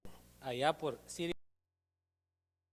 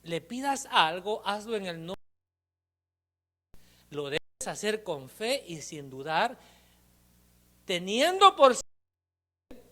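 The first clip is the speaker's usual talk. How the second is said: mother's voice; 4 semitones higher, 5 dB louder, slower than usual. Acted. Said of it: "la voz de su madre le decía".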